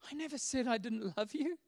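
soft, mildly puzzled protest of love; gentle reassurance. Retold or imitated. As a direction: answer a tantrum quietly and tenderly. God answers the tantrum softly.

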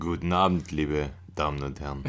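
deep, formal newsreader greeting; radio voice. Acted. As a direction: greet like a news anchor. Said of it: "Sind wir jetzt bei der Tagesschau".

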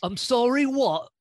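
loud, high-pitched mock disbelief; taken aback. Cohost reacting to a story about being called darling, incredulous. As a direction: react as if you can't believe what you heard.

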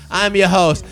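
hammed-up Spanish announcer, high and loud; Spanish soccer announcer. Mock Spanish announcer voice, host naming himself to the co-hosts. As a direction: roll out the name like a Spanish match caller. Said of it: "Spanish soccer announcer".

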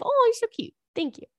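high touched squeal; delighted squeal. Real, not acted. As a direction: coo at the compliment. Reacting to fan compliment.

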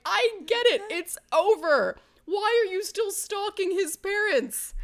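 hammed-up teen upset, mild; mock upset outburst. Running out of the room crying, mild mock wail. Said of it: "run out of the room crying".

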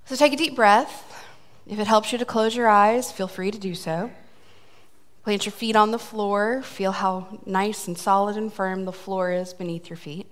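calm guided breathing; guided meditation. Acted. Leads breathing exercise.

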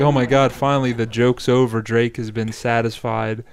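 loud mock relief; relieved frog. Comedian voices frog, loud hammed-up relief. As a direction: sigh out a frog's relief. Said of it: "and I'm like".

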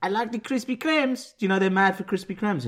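high, lightly voiced mock Mexican accent. Doing a Mexican voice on the co-host's request. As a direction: put on a cheesy Mexican voice.

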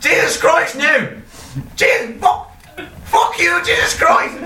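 hammed-up, high-pitched Irish swearing; Irish accent. Irish detective kicking the door, swearing in high Irish accent. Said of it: "do an Irish accent".

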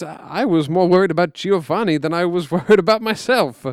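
chuckling through the words; laughing while talking. Acted. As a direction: let a laugh break through. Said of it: "continued laughing".

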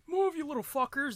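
a hint of a cranky kid; bratty kid yelling. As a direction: play the kid snapping at the game. Quoting angry kid at game.

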